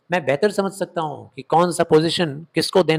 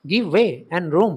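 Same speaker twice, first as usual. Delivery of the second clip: slow dramatic reading; much slower than usual. Shown as a demonstration. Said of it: "give way and room मतलब".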